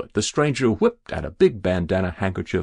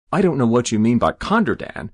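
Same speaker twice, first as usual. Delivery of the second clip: lightly voiced rustic protest, louder; protesting farmer; 3 semitones higher, 6 dB louder, faster than usual. Jabez not understanding the stranger, protesting. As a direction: push back at the fancy word.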